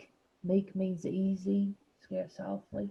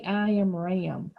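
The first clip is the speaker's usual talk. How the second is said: deep sheep voice; slower than usual. Shown as a demonstration. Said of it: "in using a sheep voice".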